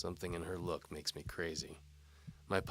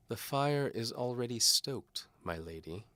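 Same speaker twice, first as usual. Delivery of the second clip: through gritted teeth; 6 semitones higher, 5 dB louder than usual. A narrator's reading. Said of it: "tells her through gritted teeth".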